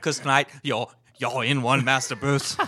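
lightly hammed British manservant accent; attempted British accent. Podcaster finishing the ghost-story line for friends, British butler accent. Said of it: "accent you were trying".

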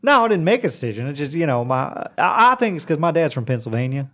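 put-on Okie twang; Okie accent. Shown as a demonstration. Explaining dad's origins to interviewer, Okie accent. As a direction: stay in Okie talk. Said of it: "when I talk like this".

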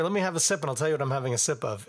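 talking around a sip of beer; while sipping a drink. Real, not acted. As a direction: speak mid-sip. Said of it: "I'm having a sip of beer".

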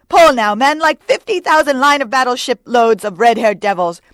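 loud rowing exhortation; high, urgent bellow to oarsmen; Stubb. A narrator's reading. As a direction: drive the crew on with a shout. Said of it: "cried Stubb".

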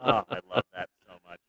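quick words broken by real laughter; delighted laughing over the line. Real, not acted. Cracking up at his co-host's joke, laughing through the words.

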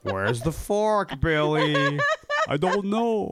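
slow, cartoonish vampire drawl; stupid vampire voice. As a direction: ham up a silly vampire. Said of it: "I use this stupid vampire voice".

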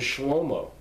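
Shlomo said as "SHLOH-moh"; Hebrew pronunciation. Shown as a demonstration. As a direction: say Shlomo with two long o sounds. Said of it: "Solomon's name is".

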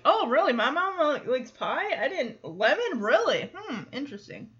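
imitating a girl acting intrigued by news about her mom; mock curiosity, lilting up and down; feigned interest. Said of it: "either interested or pretending to be interested".

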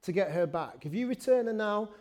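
a hint of a menacing film father; desperate father's threat. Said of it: "he is saying".

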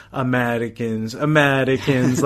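slow, fond drawn-out Pope imitation; a hint of the old Pope teasing; imitating the Pope. Pope teases the nervous American visitor, slow and fond. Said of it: "like that".

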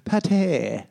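high mock pronunciation-guide voice; mocking the video narrator. Mimicking the French pronunciation video, high and mocking. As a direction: parrot him in a silly high voice. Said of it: "sounds like he's taking a piss out of Irish people".

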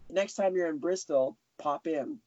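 put-on casual invite in a vague British accent; a hint of a put-on UK accent; Mrs Doubtfire UK accent. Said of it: "I have my Missus Doubtfire U K accent".

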